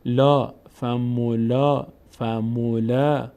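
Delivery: فمولا slowly, final "laa" held; long vowel. Shown as a demonstration. Teacher showing the alef sound, long vowel. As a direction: stretch the aa ending of فمولا. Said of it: "صدای آ".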